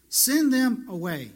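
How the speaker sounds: slow, scornful brush-off; mocking dismissal. Preacher mocking the disciples, slow and scornful. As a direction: wave them off with scorn. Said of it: "always trying to send somebody away".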